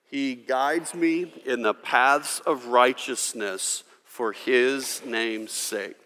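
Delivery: measured congregational reading; slow scripture recitation. Shown as a demonstration. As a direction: read it slowly like a psalm. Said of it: "Let's all say it".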